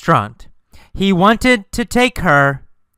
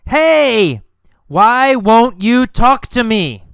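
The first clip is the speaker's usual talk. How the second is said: high, raised calling voice; yelled; 7 semitones higher, 3 dB louder than usual. Acted. Carlos calling to the girl who ignores him, yelled. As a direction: call after someone who ignores you. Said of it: "He yelled again".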